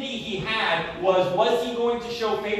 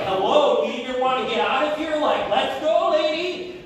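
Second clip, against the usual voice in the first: exasperated urging; 3 semitones higher, 4 dB louder than usual. Retold or imitated. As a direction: hurry them out, half yelling and rushing. Waving driver out, exasperated.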